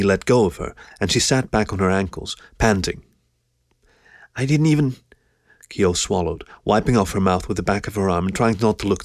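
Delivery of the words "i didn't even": higher character voice, trailing off; faltering shy woman. A narrator's reading. Keo trying not to seem self-conscious, faltering shyly. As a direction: start timidly and leave it hanging.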